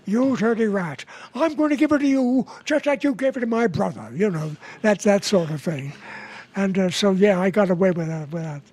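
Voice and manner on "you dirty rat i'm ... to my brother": lightly voiced Cagney, speeding up; a hint of James Cagney, rattled off; Cagney impression. Comic recalls his Cagney bit, lightly mimicked. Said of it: "who did a Cagney imitation".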